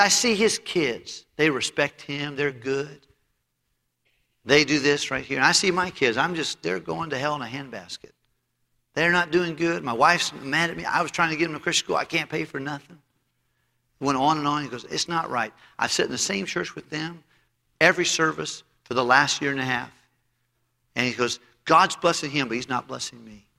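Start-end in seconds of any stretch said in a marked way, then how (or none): 0.0-13.0 higher-pitched, worked-up complaint; imitating an aggrieved churchgoer; retold grievance. Upset man complaining to pastor, retold. 14.8-23.5 imitating an aggrieved churchgoer; retold grievance. Upset man's grievance goes on.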